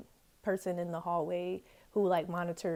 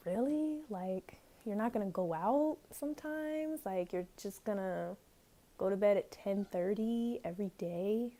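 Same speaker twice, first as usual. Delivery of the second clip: incredulous, drawn-out questioning; retold disbelief; 3 dB quieter than usual. Reacting to a roommate's early bedtime, incredulous. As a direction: stretch it out in mild disbelief.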